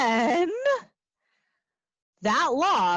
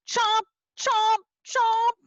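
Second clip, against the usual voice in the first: much higher, louder chomps; playful chomping; 11 semitones higher, 3 dB louder, slower than usual. Acted. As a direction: bite the words playfully. Song chomp.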